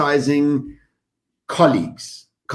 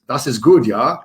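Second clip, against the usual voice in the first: mock German accent; 4 dB louder than usual. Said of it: "I don't know how to do a German accent".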